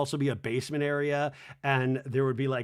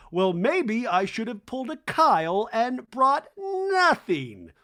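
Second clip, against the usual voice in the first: high, loud, slow catty remark; sarcastic jab; 7 semitones higher, 6 dB louder, slower than usual. Retold or imitated. Garcelle mocking Kyle to camera, sarcastic. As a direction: drip sarcasm as a dig at Kyle.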